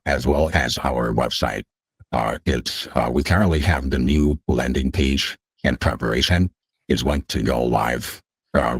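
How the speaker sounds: digitally altered voice; voice changer. Real, not acted. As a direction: speak through a voice changer. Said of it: "someone come on with a voice changer like this".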